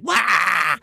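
high, loud yelp at the dog; startled yell. Retold or imitated. Owner finding the puddle, yelling at the dog. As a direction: bark it out in shock. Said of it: "most people go".

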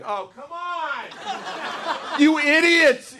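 God losing patience with fools; exasperated God. Acted. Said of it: "I picture God up in heaven, like, watching us going".

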